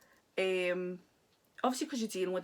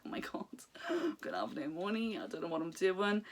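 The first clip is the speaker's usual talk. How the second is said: half-laughing whispered panic; mock panicked whisper. Pin collector recalling the prices, mock panicked whisper. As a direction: whisper it like a guilty secret.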